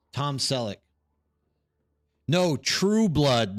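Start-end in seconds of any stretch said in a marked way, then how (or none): 2.3-3.6 True said slow and leaned on; correcting, hit True hard; slow corrective stress on True. Real, not acted. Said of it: "not Blue Blood".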